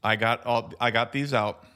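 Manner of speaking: talking with mouth full; words round a bite of candy; chewing while talking. Real, not acted. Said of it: "I'm chewing".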